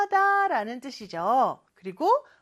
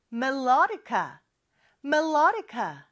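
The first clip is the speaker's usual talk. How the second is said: melodica with the second syllable stressed, me-LO-di-ca; much slower than usual. Shown as a demonstration. Teacher modelling melodica for pupils to repeat, stress on the second syllable. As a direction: punch the LO in "melodica". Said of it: "이음절의 강세가 있죠".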